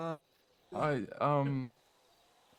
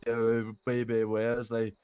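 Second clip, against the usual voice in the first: put-on Welsh accent. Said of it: "Give it a try".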